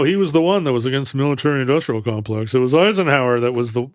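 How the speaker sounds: hurried, lightly put-on pompous-character voice; Ted Baxter. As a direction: slip lightly into a sitcom character's delivery, quick-paced. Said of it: "doing a Ted Baxter voice".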